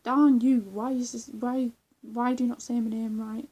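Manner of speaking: mock-indignant, punched opening easing off; half-successful imitation of an affronted man; attempted YouTuber impression. YouTuber complaining about his mispronounced name, loose mock impression. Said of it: "I can't sound like him anyway".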